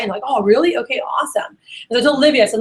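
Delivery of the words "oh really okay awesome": excited. Shown as a demonstration. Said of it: "you gotta be excited".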